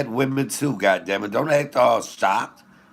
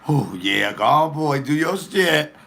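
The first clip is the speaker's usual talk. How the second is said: mama's voice; 5 semitones higher than usual. Retold or imitated. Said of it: "my mama literally like".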